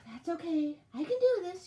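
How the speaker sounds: high, self-rallying exclamation; exclaiming. A narrator's reading. Tired elf telling herself she'll manage, exclaiming. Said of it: "she exclaimed".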